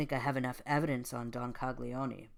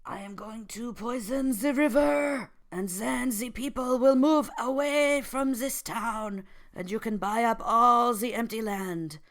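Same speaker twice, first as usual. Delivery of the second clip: high, loud theatrical French villain voice; scheming French villain; 10 semitones higher, 11 dB louder than usual. Acted. Guy pitches his poison scheme to the mafia boss, loud high villain voice. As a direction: belt it out as a gleeful cartoon poisoner. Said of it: "and Guy says".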